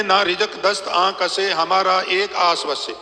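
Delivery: slow, measured verse reading; slow scripture recital. Acted. Preacher quoting the Guru to the congregation, slow recital. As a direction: lay each word down slowly. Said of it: "ਹਜ਼ੂਰ ਕਹਿੰਦੇ ਨੇ".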